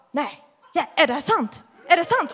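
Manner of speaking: reliving the shock of it being real; amazed disbelief. Retold or imitated. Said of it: "Jag bara".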